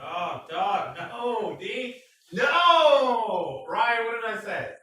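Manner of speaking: loud, high yell at a friend; a high, loud mock-outraged no; shouted protest. Real, not acted. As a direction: shout him down in playful alarm. Scolding friend off camera.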